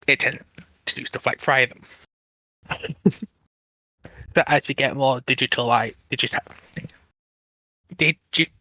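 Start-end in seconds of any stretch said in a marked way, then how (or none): none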